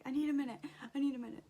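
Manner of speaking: loud, mildly panicked imitation; retold freak-out. Mom imitating her son stalling the nurse, mild panic. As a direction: mimic a kid insistently stalling, mild panic. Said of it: "starting to freak out".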